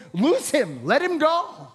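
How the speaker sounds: command. Acted. Jesus commands the crowd.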